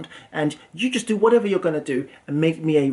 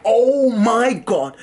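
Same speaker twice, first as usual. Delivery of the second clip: a slow, drawn-out, louder oh my God; milk the thrill of striking it rich; excited gasp; 6 semitones higher, 5 dB louder, much slower than usual. Retold or imitated. Recalling his hopes of getting rich, a drawn-out excited gasp.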